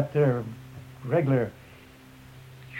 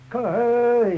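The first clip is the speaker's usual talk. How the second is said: sharp high yelled hey; war cry hey; 8 semitones higher, 5 dB louder than usual. Retold or imitated. Warrior signalling the charge with a high yell. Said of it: "That means that's universal".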